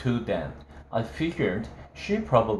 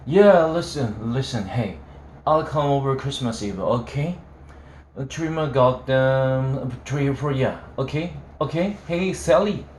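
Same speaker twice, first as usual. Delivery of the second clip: put-on drunken yelling; 3 semitones higher, 3 dB louder than usual. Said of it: "stop screaming".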